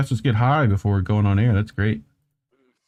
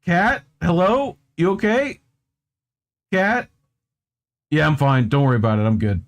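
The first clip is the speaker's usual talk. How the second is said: put-on higher, baffled kid voice, easing to casual; voicing the kid; 5 semitones higher than usual. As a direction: ask the cat, then answer coolly as the cat. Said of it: "the kid's just like".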